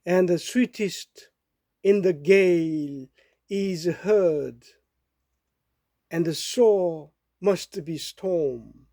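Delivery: very slow, measured English verse reading; poem recitation. Acted. Reading a Dickinson poem to listeners, slow recitation. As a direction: recite slowly, pausing between phrases.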